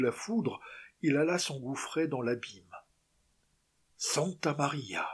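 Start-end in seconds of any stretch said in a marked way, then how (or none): 4.0-5.1 slow startled cry; José crying out at the falling rock, slow startled exclamation. Acted. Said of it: "s'écria le gabier".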